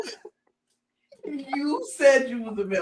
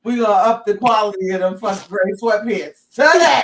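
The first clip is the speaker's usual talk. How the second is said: loud salesy build to Today; hype ad pitch; 5 dB louder than usual. Pretend. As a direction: shout Today like a deal. Mock ad pitch.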